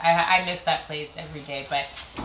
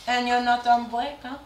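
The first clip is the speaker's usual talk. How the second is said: very high, drawn-out fake-sweet voice; sneaky passive-aggressive; 8 semitones higher, slower than usual. Coworker digging at another's smoothie break, sneaky fake-sweet. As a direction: coo it sweetly with a dig underneath. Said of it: "Oh, they were more sneaky".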